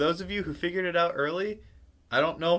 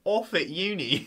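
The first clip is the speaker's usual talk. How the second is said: put-on British with a laugh; mock British accent. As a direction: toss out mock British slang. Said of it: "add some British to it".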